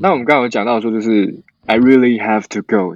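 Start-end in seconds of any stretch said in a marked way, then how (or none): 1.6-3.0 polite urgency. Shown as a demonstration. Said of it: "比较委婉的说".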